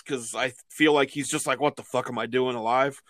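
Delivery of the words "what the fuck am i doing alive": low-key mock grumble, a touch softer; imitated grumble. Co-host imagining the announcer's reaction, mild grumble. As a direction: grumble it as if fed up. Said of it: "like, grumbles".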